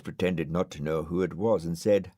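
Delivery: ordinary delivery, nothing marked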